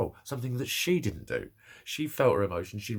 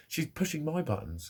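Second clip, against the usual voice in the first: usual speaking voice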